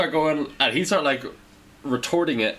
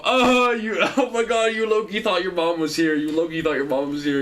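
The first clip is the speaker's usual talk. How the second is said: laughing, higher teasing jibe; 4 semitones higher than usual. Retold or imitated. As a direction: tease him mercilessly. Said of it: "And he'd go".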